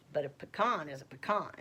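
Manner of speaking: pecan said puh-KAHN; own pecan pronunciation. Shown as a demonstration. Correcting via her sister's saying, pecan as puh-KAHN. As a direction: stress the second syllable of pecan, puh-KAHN. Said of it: "I say pecan".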